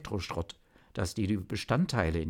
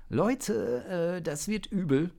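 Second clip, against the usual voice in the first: higher worried call; 10 semitones higher than usual. Acted. Zock warns the team while recharging, worried call. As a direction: warn the team something bad is coming. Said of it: "rief Zock".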